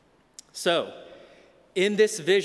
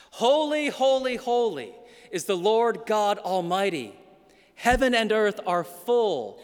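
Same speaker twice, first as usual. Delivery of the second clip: proclaiming the angels' song; 3 semitones higher than usual. Acted. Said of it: "they sing".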